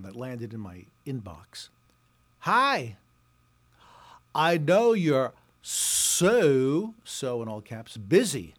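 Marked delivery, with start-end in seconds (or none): 2.4-6.9 mock gushing. Mocking a gushing PR email. 8.0-8.5 mock gushing. Mocking a gushing PR email.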